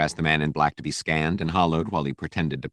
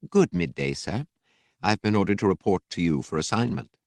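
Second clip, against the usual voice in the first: a slightly higher, posh Coruscanti droid voice; proper High Coruscanti droid, a touch raised; posh High Coruscanti accent; 3 semitones higher than usual. Acted. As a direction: speak like a polished High Coruscanti butler droid. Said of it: "High Coruscanti, it sounded like, very posh and clipped".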